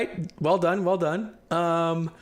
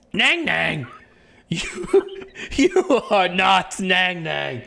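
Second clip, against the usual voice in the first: scornful NPC; much slower than usual. Acted. NPC scornfully rejects claim.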